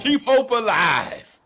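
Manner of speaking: slow, high, booming slogan; drawn-out rallying cry. Acted. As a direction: belt it out slowly like a rally chant. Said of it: "what does Black America always say".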